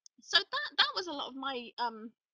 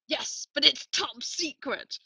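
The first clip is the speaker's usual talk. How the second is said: mock secretive; 2 semitones higher, 5 dB louder, slower than usual. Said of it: "the other guy goes".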